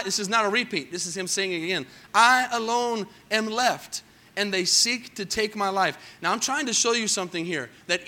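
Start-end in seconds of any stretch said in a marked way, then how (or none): 2.1-6.0 slow, loud anguished Elijah; Elijah's lament. Acted. Preacher voicing Elijah's despair, slow and loud. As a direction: drag out the lonely complaint.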